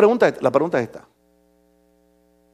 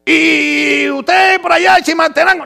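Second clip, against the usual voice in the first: imitated questioner; 6 semitones higher than usual. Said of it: "le preguntó a los hermanos".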